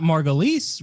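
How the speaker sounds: MARGULIES as MAR-guh-lees; ordinary MARGULIES with a lees ending; contrasting pronunciation. Shown as a demonstration. Host checking with co-host, MARGULIES as MAR-guh-lees. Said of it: "that's how you would pronounce it".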